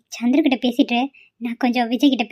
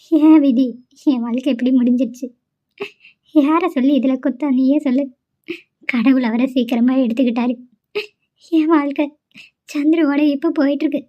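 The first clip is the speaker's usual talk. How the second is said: crying. Acted. Widow telling her old friend about her life, through tears. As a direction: voice catching on a sob as she speaks. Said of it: "தயவு செஞ்சு அழுகாத".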